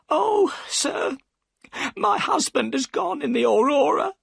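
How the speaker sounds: high, anxious woman's voice; a worried wife pushing him away; upset boatman's wife. A narrator's reading. Mrs Smith, about to cry.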